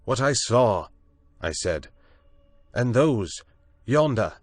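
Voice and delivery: high, loud accusing cry; accusing shout. A narrator's reading. Prendick shouts his accusation at Moreau from the water. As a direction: point and accuse.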